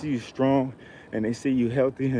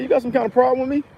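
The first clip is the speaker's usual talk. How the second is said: retold confrontation; 12 semitones higher, faster than usual. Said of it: "I said".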